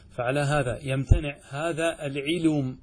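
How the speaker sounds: العلم with the meem resting silent at the stop; الميم ساكنة في العلم. Shown as a demonstration. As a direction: say هذا العلم with a bare closing meem. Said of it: "هل يجوز أن أقول هذا العلم". (العلم بسكون الميم)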